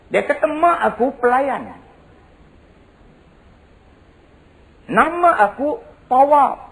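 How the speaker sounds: high, driving sermon storytelling; preaching storytelling. Acted. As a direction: tell the tale at full preaching force. Kisah Saidina Umar diceritakan. (berceramah dengan penuh semangat)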